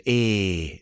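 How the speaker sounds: Nan's Geordie "Eh", drawn out; a short Geordie grunt of "Eh"; Geordie accent. Retold or imitated. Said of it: "heavily Geordie accent. I can't do it".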